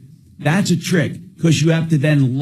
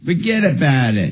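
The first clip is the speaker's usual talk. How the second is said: New Jersey accent; 3 semitones higher than usual. Shown as a demonstration. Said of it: "See, that's New Jersey".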